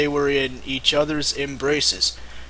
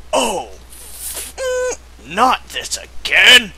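panicked cry; 6 semitones higher, slower than usual. Acted. Wolf panics at the curse.

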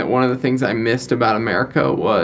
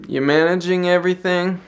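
lightly imitated Scottish lilt, pitched up; hint at an older Scottish gentleman's accent, higher; 6 semitones higher than usual. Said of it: "he's got this thick Scottish accent".

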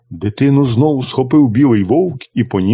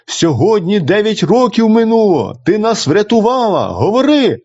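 higher, urgent plea; the brother pleads with his sister to speak; calling out; 8 semitones higher than usual. A narrator's reading. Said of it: "гукає". (брат благає сестру заговорити, вище)

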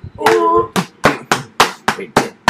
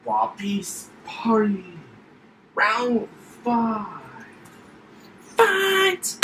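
booming fighting game announcer; 4 dB quieter, slower than usual. Pretend. Kid announces game rounds.

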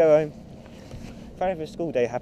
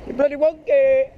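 playful shout; 9 semitones higher, 6 dB louder than usual. Real, not acted. Shouting at a wonky rider.

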